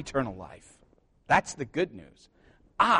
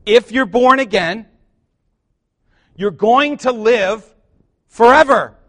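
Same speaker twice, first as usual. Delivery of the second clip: higher, louder, slow climb to a ringing forever; louder repeat; 6 semitones higher, 11 dB louder, slower than usual. Acted. Preacher repeating the line so the church says amen, louder still. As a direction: lift it so they answer amen. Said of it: "let me say it again".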